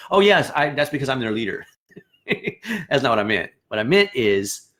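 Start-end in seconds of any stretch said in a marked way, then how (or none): 0.1-1.7 smug credit-taker. Retold or imitated. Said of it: "don't just jump up and say".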